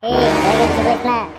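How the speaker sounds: loud angry retort. Acted. Telling the laughing friend to shut up, loud slow yell. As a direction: shout him down, slowly.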